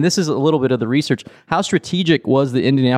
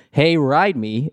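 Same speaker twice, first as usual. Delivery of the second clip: slow suggestive quip; 4 semitones higher, much slower than usual. Retold or imitated. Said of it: "Kroll says".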